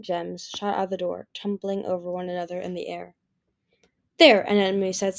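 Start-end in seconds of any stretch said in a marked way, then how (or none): 4.2-4.4 satisfied. A narrator's reading.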